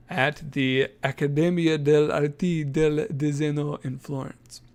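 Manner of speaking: a playful, hammed-up Italian accent on the Accademia name. Shown as a demonstration. Host showing off to cohost, mock Italian accent. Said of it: "That's my Italian accent".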